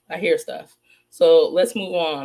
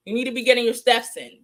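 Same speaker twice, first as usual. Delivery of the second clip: mocking order; 4 semitones higher than usual. Real, not acted. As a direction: bark it like a drill coach. Mocking rival to exercise.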